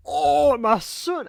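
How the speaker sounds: hammed-up emotional dad. Big Smoke crying over his son, hammed up. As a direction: ham up a weepy father, then give up. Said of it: "I can't, I can't do it".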